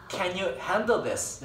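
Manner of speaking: "can you handle this?" drawn out very slowly and clearly; slow it right down like a patient native; very slow repeat. Shown as a demonstration. Teacher repeats the question slowly for students. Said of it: "나 pardon 이랬어".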